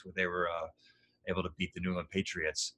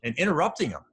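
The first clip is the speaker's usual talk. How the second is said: high, loud mock telling-off; yelling at younger self; 10 semitones higher, 6 dB louder than usual. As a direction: scold your younger self, pitched way up. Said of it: "I'm yelling at my younger self".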